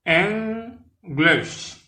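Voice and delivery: English said /enɡleʃ/, first syllable EN stressed, high and clear; two clear syllables EN-glish; model pronunciation. Shown as a demonstration. Teacher modelling English for French learners. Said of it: "vous devez prononcer les bien".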